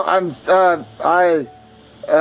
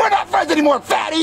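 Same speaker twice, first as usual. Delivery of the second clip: much higher, shrieking accusation; outraged shout; 9 semitones higher than usual. Acted. Junior screaming at Cody for taking his fries, outraged. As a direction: scream it like he's been robbed.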